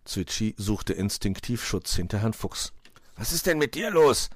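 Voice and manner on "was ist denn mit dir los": higher-pitched puzzled question; raised, wondering fox voice; astonished fox. A narrator's reading. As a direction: ask it in wonder. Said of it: "fragte dieser verwundert".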